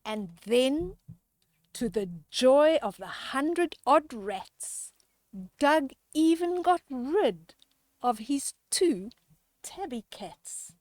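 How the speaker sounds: lively rhyming storybook read-aloud; reading to children. A narrator's reading. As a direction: read the rhyme to the kids with relish. Rhyming picture book read aloud.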